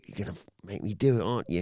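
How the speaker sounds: lightly put-on cockney accent. Wrestler threatening his rival with the chair, in mock cockney. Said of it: "he's suddenly gone cockney".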